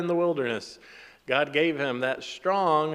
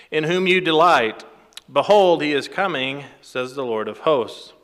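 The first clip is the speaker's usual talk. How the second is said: louder, proclaiming Bible verse; scripture reading; 7 dB louder than usual. Acted. Preacher reads prophecy to congregation, emphatic scripture reading. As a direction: proclaim it, hitting the opening words loudly.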